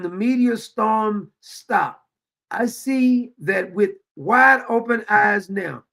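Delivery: reading her words slowly and gravely; slow dramatic reading. Acted. Commentator reads the woman's heartbroken statement, slow and solemn. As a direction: read the statement like a sad letter.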